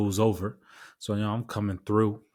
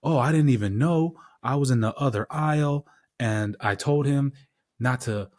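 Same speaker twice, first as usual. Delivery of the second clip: higher-pitched mock surprise; imitated surprised lady; 5 semitones higher than usual. Lady driver tells the wife she didn't know, imitated surprise. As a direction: play the lady caught off guard, pitched up.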